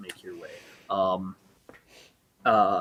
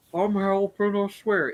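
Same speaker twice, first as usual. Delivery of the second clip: fat pirate; 9 semitones higher, 3 dB louder than usual. Acted. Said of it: "water genasi is like".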